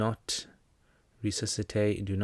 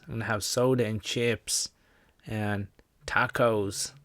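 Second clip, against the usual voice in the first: lightly put-on American accent; a hint of hammed-up American, stretching the last word; mock American accent; slower than usual. Chilling with snacks, lightly mocked American accent. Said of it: "this is how we think you guys sound".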